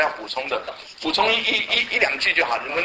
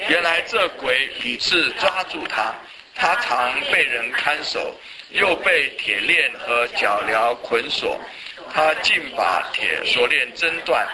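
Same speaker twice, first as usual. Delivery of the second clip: measured, evenly phrased Bible reading; scripture reading; slower than usual. Acted. Teacher leading the class in reading Luke's Gospel aloud, measured scripture reading. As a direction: read the passage aloud for a group to follow.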